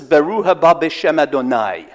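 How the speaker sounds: "Baruch haba b'shem Adonai" in Hebrew, throaty ch in "Baruch"; Hebrew pronunciation. Shown as a demonstration. Preacher reciting the verse in Hebrew, throaty ch. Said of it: "it goes like this".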